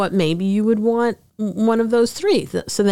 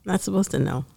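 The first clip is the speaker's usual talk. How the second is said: hushed, fading to a whisper; mock-secret whisper; 7 semitones lower, 9 dB quieter, faster than usual. Co-host hiding guest's job, mock whisper.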